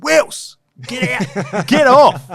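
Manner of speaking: high, loud mock yell with a laugh; imitating teammates shouting him off; retold yell. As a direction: yell across a field, half laughing. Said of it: "we've kinda yelled".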